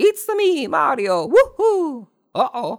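very high, stretched-out, drawn-out cartoon voice. Speaker doing Mario's catchphrases while discussing the movie, Mario voice. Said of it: "I don't know how good my Mario impression is".

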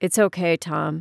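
quiet, soft. Speaking to a man who was just snapped at, quietly. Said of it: "Alex said quietly".

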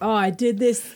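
ordinary talk

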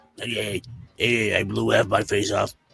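very low, rough mutter from the side of the mouth. During a comedy bit, imitating the guy from Boardwalk Empire. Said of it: "speak out the side of your mouth".

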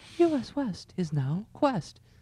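very high, pleasant, patient, gentle lady's voice. Speaker imitating the lady's voice that announced the branding change, imitating a pleasant, patient lady. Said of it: "it was like a lady's voice".

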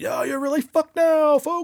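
over-the-top monster truck announcer, very loud, very high, shrill. Speaker recalling a voice from their hallucinations; monster truck announcer voice. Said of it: "the monster truck voice".

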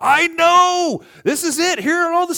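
very high, very loud, very slow freakout. Retelling a phone call to the speaker's wife from a parking lot, freaking out. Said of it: "I'm freaking out on the phone".

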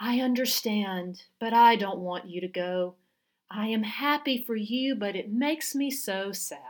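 mock hushed voice, almost a whisper. Speaker retells what the scarf and hat lady said, almost whispering. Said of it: "almost whispering".

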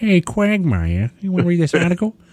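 awful put-on voice, high pitch, swooping. Asking Quagmire to read the article: awful Peter Griffin impersonation. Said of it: "apologize for that awful impersonation".

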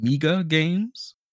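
very slow, deliberate, drawn-out speech. Saying a name very slowly, as announced beforehand: Miga Games said very slowly. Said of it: "a word I'm going to say very slowly".

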